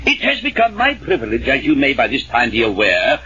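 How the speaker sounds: pompous formal address; dignified. Acted. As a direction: put on serious dignity to win his endorsement. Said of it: "now, serious and dignified".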